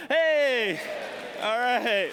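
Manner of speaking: loud, high happy shout; excited cheer. Real, not acted. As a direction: cheer as the demo works. Cheers as the dot moves.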